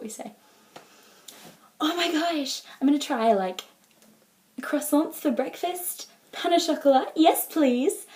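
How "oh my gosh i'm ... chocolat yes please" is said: high-pitched, hammed-up delight; playful mock gushing, pitched well up; imagined excited exchange student. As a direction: swoon over every new treat. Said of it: "what you imagine is, is something, like, a little like this".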